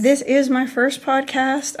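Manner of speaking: rough voice after laryngitis; hoarse and gravelly. Real, not acted. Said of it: "pardon my gravelly voice".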